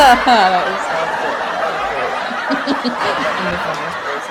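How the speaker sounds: slow words breaking into laughs; talking through laughter. Real, not acted. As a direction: squeeze the words out while cracking up. Still laughing at own joke.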